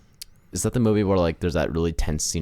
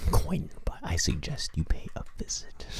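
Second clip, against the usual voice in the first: soft, hushed mock-polite whisper; whisper in the ear; 7 dB quieter than usual. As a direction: whisper it discreetly into someone's ear. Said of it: "Whisper in his ear".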